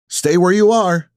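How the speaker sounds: loud, forceful order; warning. A narrator's reading. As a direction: warn them off firmly. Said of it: "I warn".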